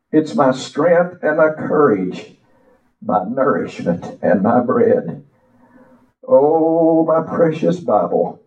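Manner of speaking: slow, sing-song preacher recitation; poem recital. Acted. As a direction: recite it like a hymn from the pulpit.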